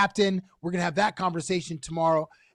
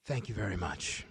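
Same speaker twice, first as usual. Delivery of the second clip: mock showman thanks; 9 semitones lower, 10 dB quieter than usual. Mock performer sign-off.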